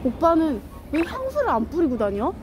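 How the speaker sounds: ordinary delivery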